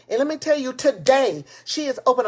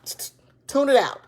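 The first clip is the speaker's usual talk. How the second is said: whisper. Real, not acted. Whispered aside opening the stream.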